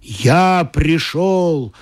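slow drawn-out rumbling announcement; God booms from behind the door, slow and rumbling. Acted. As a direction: roll it out slowly like a grand arrival. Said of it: "зарокотала за дверью".

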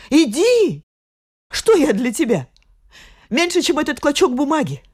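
bitter, flaring anger through tears; angry. Acted. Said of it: "в её глазах блеснул гнев".

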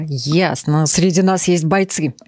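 normal talking voice

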